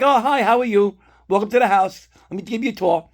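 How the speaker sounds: high, loud, chirpy welcome as the cats; cats voiced as hosts. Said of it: "They're like".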